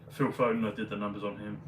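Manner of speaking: talking through hiccups; interrupted by hiccups. Real, not acted. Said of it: "keep hic-, hiccuping".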